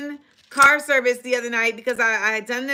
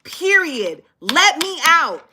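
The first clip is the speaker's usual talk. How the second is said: stern demand; 4 semitones higher, slower than usual. Retold or imitated. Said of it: "Because I said".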